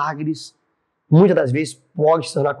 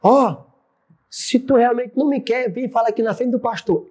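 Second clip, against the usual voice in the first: mock a husband hollering a challenge; retold shout; 7 semitones higher than usual. Husband dares his wife before the pastor, retold mild yell. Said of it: "Aí ele gritou".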